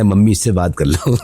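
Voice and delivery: mock son's request, laughing through it; laughing quote. Son casually asking mom about a girl he saw, laughing. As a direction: laugh while quoting the son. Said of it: "तो उसने बोला".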